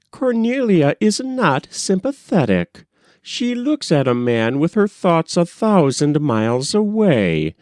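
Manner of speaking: a mother giving up on her daughter; despairing mother. A narrator's reading. Mother voiced lamenting her daughter.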